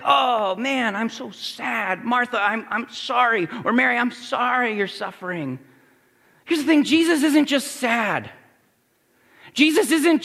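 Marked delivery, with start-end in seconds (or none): 0.0-3.5 mock wimpy Jesus. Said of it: "it makes Jesus sound wimpy". 3.7-5.6 limp, mopey mock sympathy, softer; lightly mock a feeble apology; mock wimpy Jesus. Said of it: "it makes Jesus sound wimpy".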